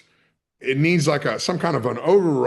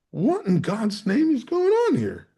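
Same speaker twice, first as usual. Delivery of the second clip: high, bewildered outcry; can't believe what's happening; stunned disbelief; 9 semitones higher than usual. Retold or imitated. Man at gunpoint in a bank, high bewildered outcry. Gun pointed at him.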